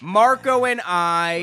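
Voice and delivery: slow, drawn-out put-on cartoon voice; exaggerated cartoon intonation. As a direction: stretch each word in a goofy sing-song. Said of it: "Why are you talking like that?".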